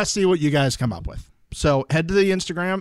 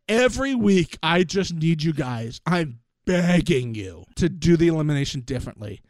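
replaying own words. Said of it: "let me just refresh your memory on what I said last week".

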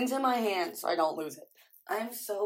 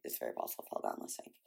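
muttered; 11 dB quieter, faster than usual. Real, not acted. Dreadful realisation, muttered.

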